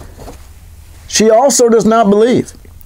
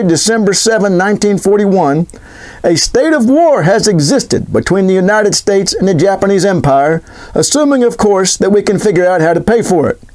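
put-on FDR accent. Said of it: "I do his accent, but I'm not good with accents".

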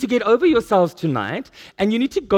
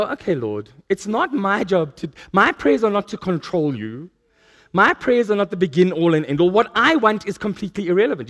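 surrendering prayer. Retold or imitated. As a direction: soften and let go. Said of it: "I had to sit there and go".

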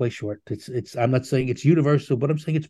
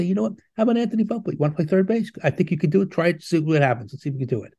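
bright, higher encouraging coach; upbeat manager voice; 4 semitones higher, faster than usual. Retold or imitated. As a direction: pitch it up like a friendly manager. Manager voiced asking Volpe.

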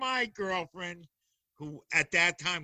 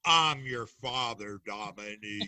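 mock villain reveal; 8 semitones lower than usual. The speaker teasing Dominique with a lightly voiced villain line. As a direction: drop the voice for a dramatic reveal.

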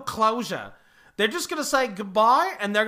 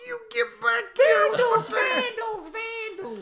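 angry shout; 12 semitones higher than usual. Retold or imitated. Guy chasing the thief from church, high angry shout. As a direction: yell after the runaway like an angry local. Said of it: "and a guy goes".

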